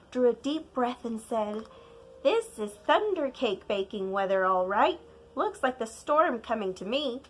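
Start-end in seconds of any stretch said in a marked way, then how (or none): 2.2-7.2 lightly voiced old grandmother, a touch louder; an old grandma reading the weather. Grandma to child, lightly voiced grandmother.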